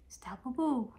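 calling out. Real, not acted. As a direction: call the pet's name fondly. Pet name called out loud.

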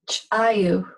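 "chayu" with a popped CH, then a tiny break; "chayu" opened by an ejective ch. Shown as a demonstration. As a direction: pop the first sound of "chayu". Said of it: "that's ejective".

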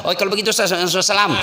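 mock fumbled goodbye; hurried phone sign-off. Caller cutting off the preacher, hurried stammer. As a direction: stumble over repeated words while hurrying off.

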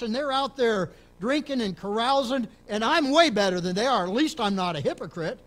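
imitating dad. Dad protesting he's a decent guy.

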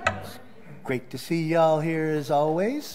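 a hint of a southern accent. Real, not acted. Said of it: "There's my little southern accent again creeping in".

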